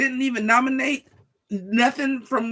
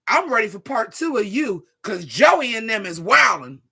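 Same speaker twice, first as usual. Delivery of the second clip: imitating friend's message; 6 dB louder than usual. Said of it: "Honey, she said".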